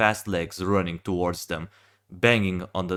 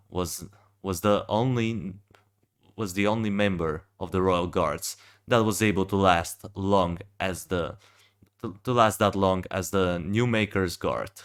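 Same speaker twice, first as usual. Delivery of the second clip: groggy and halting, restarting words; just woke up, stumbling over words; stuttering. Real, not acted. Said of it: "sorry if I'm stuttering a little bit, I just woke up".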